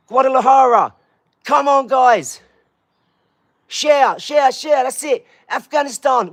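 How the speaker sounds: high, excited calling out; excited shout-out. Real, not acted. Streamer greets viewers' home towns, excited shout-out. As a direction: call it out high and keen.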